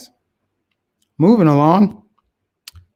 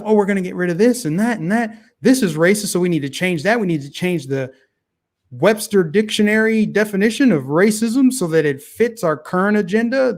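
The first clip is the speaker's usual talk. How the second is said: higher, fast mock voice of the left; 4 semitones higher than usual. Commentator mocking the left's agenda, higher mock voice. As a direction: parody them as silly, lightly voiced.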